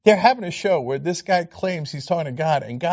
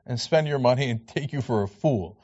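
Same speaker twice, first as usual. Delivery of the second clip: mock preacher; 5 semitones lower than usual. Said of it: "where preachers say".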